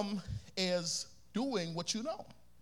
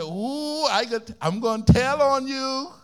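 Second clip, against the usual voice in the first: louder gleeful taunt; tattletale tease; 3 semitones higher, 7 dB louder than usual. Retold or imitated. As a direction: gloat like a little brother. Brother teasing.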